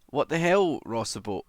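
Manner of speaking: high, loud indignant what the hell; shocked and half joking, call it out; mock outrage. Real, not acted. Streamer reacting to a viewer's cheeky message, loud mock shock.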